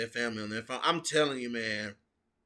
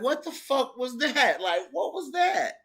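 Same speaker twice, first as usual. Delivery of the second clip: imitating Casey; 10 semitones higher than usual. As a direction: mimic Casey's bemused reaction. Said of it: "Casey looked at her like".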